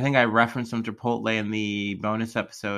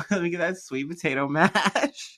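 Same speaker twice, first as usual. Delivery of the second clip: laughing; 6 semitones higher than usual. Retold or imitated. Laughs through own quote.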